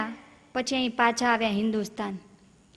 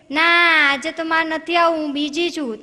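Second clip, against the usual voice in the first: called-back refusal; 4 semitones higher, 5 dB louder than usual. Retold or imitated. Neighbour calls back refusing.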